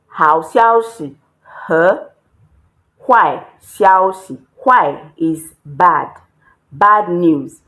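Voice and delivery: slow teaching demo. Shown as a demonstration. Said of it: "Good news is 好消息".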